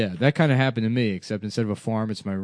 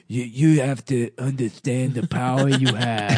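lisping movie impression. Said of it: "with this weird Down syndrome lisp".

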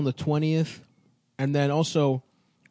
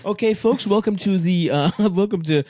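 laughing host; 3 semitones higher, 4 dB louder than usual. Pretend. Hosting a focus group, laughing.

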